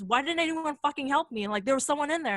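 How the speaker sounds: imitated indignant outburst. Storyteller voices friend scolding those who didn't help, imitated indignant outburst. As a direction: demand an explanation, acting out the upset friend. Retold friend confronts the group.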